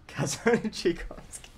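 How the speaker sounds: hammed-up Russian accent, dragged out. Streamer reading out a name for laughs, in a mock Russian accent. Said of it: "A Russian person just tunes into the stream".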